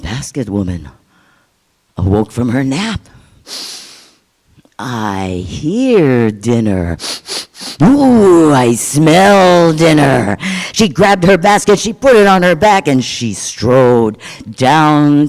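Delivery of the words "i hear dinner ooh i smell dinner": hungry giant. Acted.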